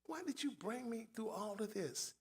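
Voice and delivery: low, soft grieving plea to God; hushed lament; quiet prayer. Acted. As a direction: ask God quietly, hurt. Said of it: "It was to God".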